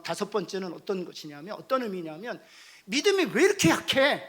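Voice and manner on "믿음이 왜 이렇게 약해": loud, higher reproach; accusing. Acted. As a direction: belittle someone's faith. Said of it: "라고 비난하지 않습니다". (크고 높게 비난하듯)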